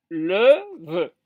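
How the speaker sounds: "le, veut" as two separate beats, lè and ve; syllable-by-syllable demo. Shown as a demonstration. Teacher dividing lève into two syllables, each said separately. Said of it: "deux syllabes".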